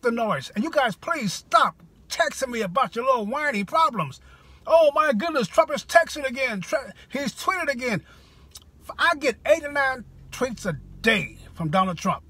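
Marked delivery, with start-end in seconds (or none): 4.6-8.0 mock alarm at the president's texts. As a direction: parody a whiner clutching pearls. Mocking complainers about Trump tweets.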